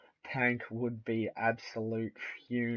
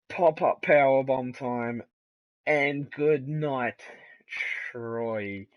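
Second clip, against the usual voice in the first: excited shout; 3 semitones higher, 7 dB louder than usual. Acted. Big finishing move call.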